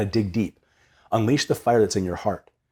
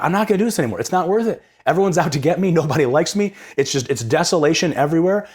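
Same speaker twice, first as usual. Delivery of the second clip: mild lament; 5 semitones higher than usual. Retold or imitated. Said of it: "he's crying out to God".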